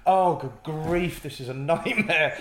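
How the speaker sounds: high, loud and very slow despair; mock despair. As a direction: ham up the panic. Struggling improviser's inner voice.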